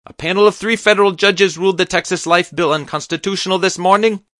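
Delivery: put-on high, loud accented tirade; shouting doctor. A narrator's reading. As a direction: keep yelling the defence. Doctor keeps shouting defence.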